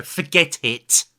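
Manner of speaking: loud, slow "Forget it"; exasperated loud quit; mock exasperation. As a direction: give up on her loudly. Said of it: "look her in the eyes and go".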